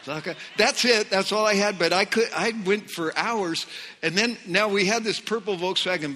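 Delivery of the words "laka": repetitive babbled chant of few syllables; imitated tongues. Happy new believer outside the closed church, repetitive imitated tongues. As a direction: loop the nonsense syllables steadily. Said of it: "I'm just like".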